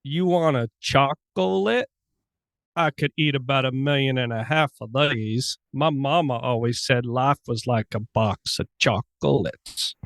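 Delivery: slow Southern drawl, hammed up; a slow, mocking Southern drawl; Forrest Gump accent. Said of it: "give me one more shot".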